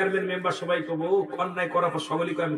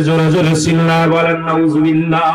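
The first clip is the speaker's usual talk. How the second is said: loud, forceful preacher's call; rally the crowd to shout back; rousing congregational call; 2 semitones lower, 11 dB louder than usual. Real, not acted. Urging congregation to shout responses. (শ্রোতাদের উদ্দেশে জোরালো হাঁক)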